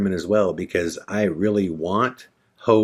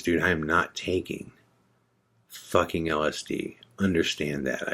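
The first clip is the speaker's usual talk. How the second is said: tense refusal; 6 dB quieter than usual. Retold or imitated. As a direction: quietly imitate a friend refusing, falling away. Retold tense refusal of LSD.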